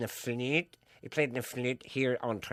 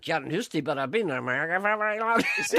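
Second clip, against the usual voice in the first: put-on Scottish-American accent; 5 semitones higher, 4 dB louder than usual. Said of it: "Try the Scottish accent again with an American".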